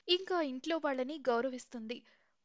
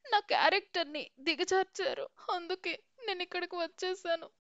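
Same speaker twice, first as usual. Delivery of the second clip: crying; 5 semitones higher than usual. Acted. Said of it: "ఏడుస్తూ ఇలా అంటుంది".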